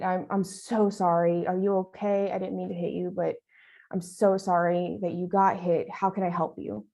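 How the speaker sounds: mean every word of the sorry; sincere apology. Pretend. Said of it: "No, right?".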